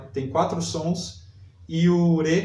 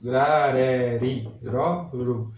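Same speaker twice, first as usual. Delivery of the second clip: slow demo; 3 semitones lower, much slower than usual. Shown as a demonstration. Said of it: "Reparem que é o R fraco".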